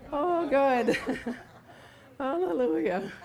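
high laughing, breaking into giggles. Real, not acted. Preacher laughing at God's answer about her job, laughing. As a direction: laugh it out in disbelief.

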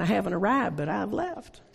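lightly put-on Southern accent; a folksy saying in mock Southern accent; fake Southern accent. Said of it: "use my fake Southern accent".

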